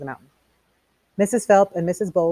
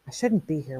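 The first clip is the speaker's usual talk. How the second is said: softly, to himself; whispered; 6 dB quieter than usual. A narrator's reading. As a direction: Montag talking half to himself, softer. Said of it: "whispered Montag".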